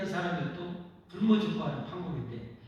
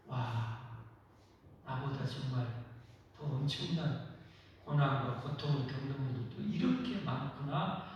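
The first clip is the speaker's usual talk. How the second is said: softer, awed murmur; quiet realization; 5 semitones lower, 6 dB quieter than usual. Retold or imitated. Believer realizing others suffer more, soft awe. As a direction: let it dawn on you quietly. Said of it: "하는 것을 깨닫게 돼요".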